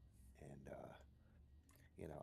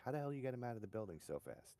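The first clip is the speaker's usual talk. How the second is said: higher, amazed grandma asking; 7 semitones higher than usual. Retold or imitated. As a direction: marvel at it like a surprised grandmother. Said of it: "She's like".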